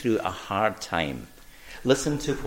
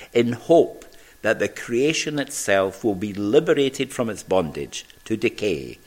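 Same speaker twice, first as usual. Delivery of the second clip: scripture reading. Acted.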